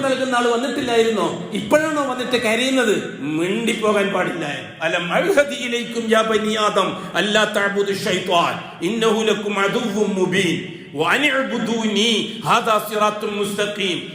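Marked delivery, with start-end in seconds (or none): 4.9-14.0 slow, measured tajweed chant; slow recitation of Arabic scripture; Quranic recitation. Acted. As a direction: intone the verse slowly and evenly. Quran verse recited in sermon.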